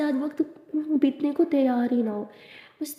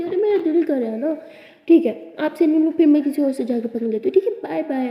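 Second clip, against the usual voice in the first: teasing threat; 2 semitones higher, 5 dB louder than usual. Acted. Abira teasing loudly.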